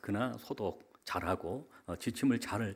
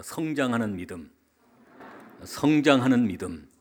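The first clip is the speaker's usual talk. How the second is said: preacher's slogan, louder the second time; call to repeat; 2 semitones higher, 8 dB louder than usual. Shown as a demonstration. Pastor leading the congregation to repeat a phrase, emphatic. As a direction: give it out firmly for repeating. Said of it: "따라합시다".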